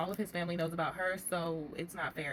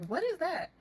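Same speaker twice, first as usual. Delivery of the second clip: much higher and louder, startled; shocked what; 10 semitones higher, 5 dB louder than usual. Retold or imitated. Kim spotting Joey's new rims, shocked and loud. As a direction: catch her off guard with it.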